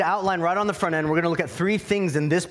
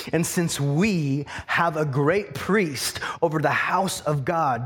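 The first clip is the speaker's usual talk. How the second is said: slow, deliberate verse reading; slower than usual. Real, not acted. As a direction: read it slowly, hanging on each phrase. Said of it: "I'm gonna read this slowly".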